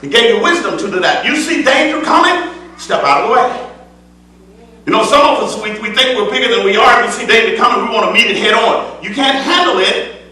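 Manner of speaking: full-voiced preaching with rising fervor. Preacher exhorting the congregation in full preaching voice. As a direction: preach it out to the church.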